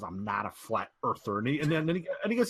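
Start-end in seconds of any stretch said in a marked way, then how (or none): 0.0-1.4 lower-pitched attempt at country accent. Retelling AJ's denial, in a loose country accent. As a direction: lightly imitate a Southern country accent. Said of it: "country accent he's got".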